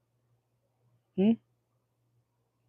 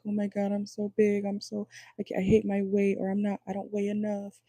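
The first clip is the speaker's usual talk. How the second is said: higher-pitched, hammed-up whining about weight; mock insecure whine; 5 semitones higher than usual. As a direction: lightly mimic someone fretting on the scale. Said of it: "stepping on the scale like".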